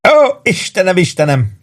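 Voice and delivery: high wail dropping to a moan; acted, laughed-out groan; groaning with laughter. A narrator's reading. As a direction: wail helplessly with mirth. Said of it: "nyögött Warden".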